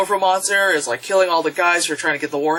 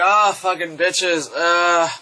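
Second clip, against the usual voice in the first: Godzilla; slower than usual. Retold or imitated. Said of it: "he's just like".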